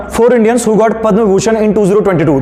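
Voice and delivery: slow, word by word dictation; dictating. Shown as a demonstration. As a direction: pace it for students to write. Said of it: "लिखना". (धीरे-धीरे बोलकर लिखवाना)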